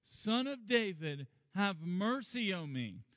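slow, drawn-out plea; crying out. Retold or imitated. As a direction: stretch it into a begging cry. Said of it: "kept crying out all the more".

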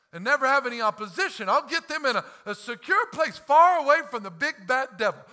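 mock fearful caution; sarcastic, playing the timid church; lightly mocking safe retreat; mocking timid version. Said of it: "He's not saying".

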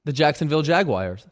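Jaguars said as jag-wire; his way of saying Jaguars. Shown as a demonstration. The speaker saying the team name, Jaguars as jag-wire. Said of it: "Can you please say the name of that team?".

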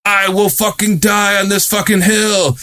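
half-hearted impression of a fired-up shout; mock yell. Retelling the Bitcoin bro yelling at the crowd, mock yell. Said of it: "he starts yelling".

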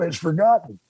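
ordinary delivery

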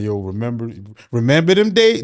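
mock nostalgic voice. Mocking a nostalgic friend.

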